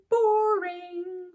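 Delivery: put-on a cheeky kid dismissing toast; bored dismissal. A narrator's reading. Lily scoffs at the boys' breakfast, loud and high.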